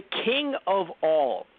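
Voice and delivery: stretched-out, grand announcement of a title; slow, weighty build-up; dramatic reveal. Real, not acted. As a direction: draw each word out slowly for the reveal.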